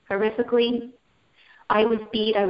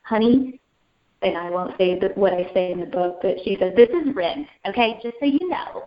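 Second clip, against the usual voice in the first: a hint of a brassy mom consoling; mom's voice. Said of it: "in my mom's voice".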